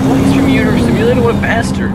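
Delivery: high, fast outraged viewer voice; mock indignant fan squeaking. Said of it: "they're like".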